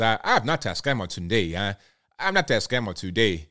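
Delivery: playful imitation of Nigerian English; Nigerian accent. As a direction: protest in a put-on Nigerian accent. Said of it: "I did my Nigerian accent".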